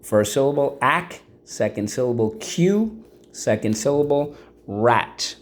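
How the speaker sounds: syllables called out high, one by one; teacher drills the syllables of accurate, called out. Shown as a demonstration. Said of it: "So let's go".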